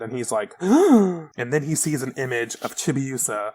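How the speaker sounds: usual speaking voice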